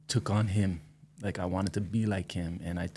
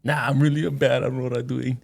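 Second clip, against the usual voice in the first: louder, a step higher, it all spills out; sudden honest outburst; 5 semitones higher, 6 dB louder than usual. Retold or imitated. Friend admitting to him, louder and higher: really bad. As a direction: drop the act and blurt it. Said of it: "And they go".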